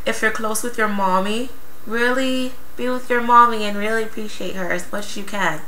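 put-on cutesy baby talk. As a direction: talk like a little kid. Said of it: "sorry I had to do my baby voice".

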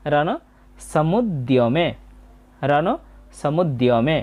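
careful "রণ সমুদ্যমে", য-ফলা sounded as i-o; i-o pronunciation demo. Shown as a demonstration. Teacher repeating "রণ সমুদ্যমে" for learners, careful i-o pronunciation. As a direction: say "সমুদ্যমে" as samud-di-o-me. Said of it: "ই অ হবে".

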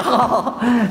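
short, high put-on cackle; mimicked answering laugh; imitated Roy Keane laugh. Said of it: "sounding like each other".

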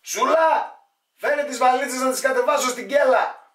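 high, loud put-on holler; acted calling out. Emigrant calls for suitcases to take downstairs, acted calling out.

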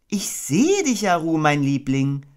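high, slow, lightly stern mother voice; gently firm; fairly serious Kanga. Acted. Kanga answering her baby, fairly seriously. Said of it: "sagte Kenga ziemlich ernst".

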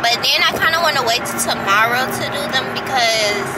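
talking with retainers in; speech thick around retainers. Real, not acted. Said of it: "if I'm talking funny, it's 'cause I got my retainers in".

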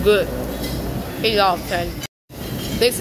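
chewing while talking; muffled words between bites; mouth full of rice. Real, not acted. Seen 0: Bites rice at -2; lips pursed, chewing while speaking.

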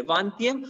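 VANTYAM with no g sounded; silent G. Shown as a demonstration. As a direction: say Vantyam as "van-tyem", dropping the g. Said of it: "do not pronounce that G there".

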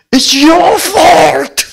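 high, loud, crying wail. Retold or imitated. Little daughter wailing at her father while beating his chest. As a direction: sob it out as blame. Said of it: "통곡을 하면서".

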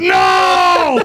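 high, drawn-out mock scream of protest; dismayed cry. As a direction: wail it in exaggerated horror. Retells horrified reaction to pick.

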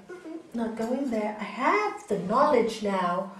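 firm, slow, determined; a touch of stubborn resolve; resolute refusal. Retold or imitated. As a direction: slowly insist you won't fall in. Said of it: "you go".

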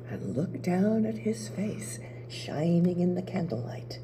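soft, whispered storytelling, suspense; hushed narration. A narrator's reading. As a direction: hush it like the room is asleep.

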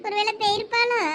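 fearful, close to crying; a worried mother near tears; tearful worry. Acted. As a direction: voice catching on a sob. Worried mother fears daughter eloped.

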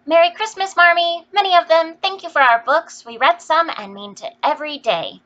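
joyful chorus cry. A narrator's reading. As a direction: shout the Christmas greeting all together. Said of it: "they all cried in chorus".

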